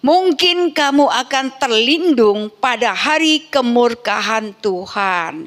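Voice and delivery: measured, proclaiming Bible reading; solemn declaimed scripture. Acted. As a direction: read the verse out to the congregation with drawn-out phrases. Reads a Bible verse aloud.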